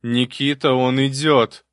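high, loud excited cry; excited shout. A narrator's reading. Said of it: "возбуждённо закричал умник".

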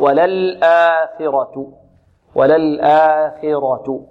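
وللآخرة drawn out very slowly; slow recitation. Shown as a demonstration. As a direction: stretch وللآخرة out. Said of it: "والخاء هنا". (وللآخرة بتلاوة بطيئة)

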